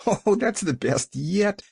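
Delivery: high-pitched delighted exclamation; crowing. A narrator's reading. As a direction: crow with gleeful delight. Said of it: "she crowed".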